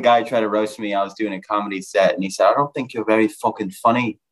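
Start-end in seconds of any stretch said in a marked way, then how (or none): 2.5-4.2 mock Irish accent on a put-down; Irish heckler accent. Irish guy roasting a comic mid-set, imitated Irish accent. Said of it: "an Irish guy heckles you".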